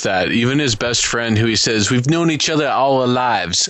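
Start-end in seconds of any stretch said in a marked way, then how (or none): 1.9-3.7 half-hearted attempt at a Jersey accent; barely there Jersey accent; failed Jersey accent. Co-host quotes the best friend, failed Jersey accent. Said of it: "I can't even do a Jersey accent".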